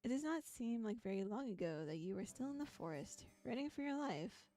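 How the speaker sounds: steady second-person storybook read; calm narrator reading a game's prose; story narration. A narrator's reading. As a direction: read the passage like an interactive novel. Reads second-person story passage.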